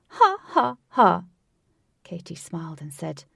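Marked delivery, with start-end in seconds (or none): 0.1-1.2 loud, high mocking laugh; gloating laugh. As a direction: laugh in triumph at her rival. Rival gloating after winning.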